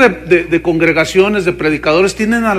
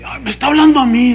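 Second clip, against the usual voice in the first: higher, quick, excited voice of a gullible viewer; mocking gullible viewer; 6 semitones higher, faster than usual. Preacher mimicking a viewer who thinks the TV speaks to her. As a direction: gasp it out as if singled out.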